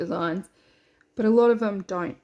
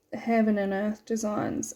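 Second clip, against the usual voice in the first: "heaven and earth designs" said around a needle held in the lips, slightly muffled; "heaven and earth designs" spoken with a needle between the lips; needle in mouth. Real, not acted. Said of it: "I put a needle in my mouth".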